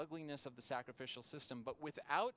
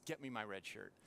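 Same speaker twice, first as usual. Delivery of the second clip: understated, lower captain's order; very calm; 4 semitones lower than usual. Retold or imitated. Captain facing attack orders his sailor, very calmly. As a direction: give the order calmly, letting the pitch drop. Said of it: "very calmly".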